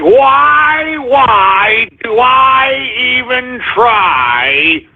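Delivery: high, slow despairing sigh; exaggerated hopeless whine; drawn-out weary lament. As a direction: stretch it out like giving up.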